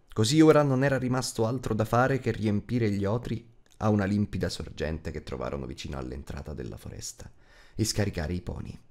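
plain reading voice

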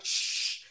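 old lady's mock shush; indignant audience member's "shh". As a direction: hush the people around you with a long hiss. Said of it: "this poor old lady in the front row".

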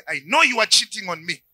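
accusing wife. Acted. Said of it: "and say".

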